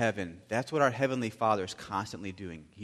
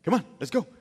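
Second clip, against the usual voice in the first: urging; 9 semitones higher, 7 dB louder, much faster than usual. Retold or imitated. Dad urging daughter on.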